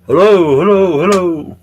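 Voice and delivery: high, swooping singsong hello; mock calling out. Streamer testing an empty live feed, mock calling out.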